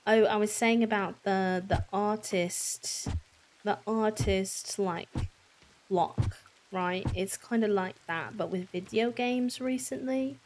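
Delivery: shaky attempt at a British accent; British accent that keeps drifting; bad British accent. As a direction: chat casually in an amateur British accent. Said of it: "so my bad British accent can go away".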